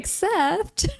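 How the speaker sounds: mock smugness. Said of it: "We're like".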